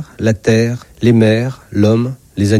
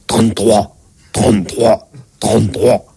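patient's recitation; 3 semitones lower than usual. Acted. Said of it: "je vous prie de dire trente-trois".

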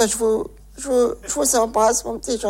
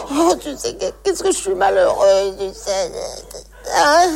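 put-on old lady voice. Old lady on phone to daughter.

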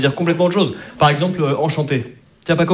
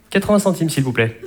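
hypocritically polite. Acted. Baker asking a customer for payment, falsely polite. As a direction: lilt it with put-on courtesy. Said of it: "le top de l'hypocrisie".

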